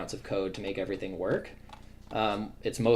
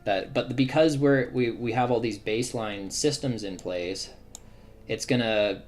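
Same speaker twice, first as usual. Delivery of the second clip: excited; 2 semitones higher, 4 dB louder than usual. Real, not acted. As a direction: share what thrills you about the project. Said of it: "really excites me about".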